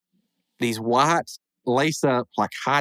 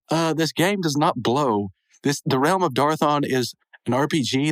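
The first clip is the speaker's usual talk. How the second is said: snobbish. Retold or imitated. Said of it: "kinda getting a little bit snobbish".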